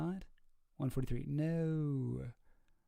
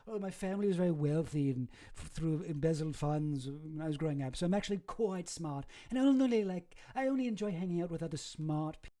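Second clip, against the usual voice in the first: mocking Ghislaine; 2 semitones higher than usual. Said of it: "she likes to say".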